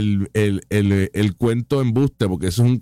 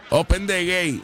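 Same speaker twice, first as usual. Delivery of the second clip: mocking quote; 3 semitones higher than usual. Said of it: "Del Open the gate de Juan Dalmau".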